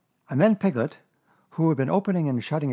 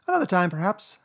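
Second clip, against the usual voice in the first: high, mildly consoling voice; comforting Piglet; 8 semitones higher, 3 dB louder than usual. A narrator's reading. Piglet consoling Pooh about next time, comforting. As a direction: offer gentle hope in a high little voice. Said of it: "said Piglet comfortingly".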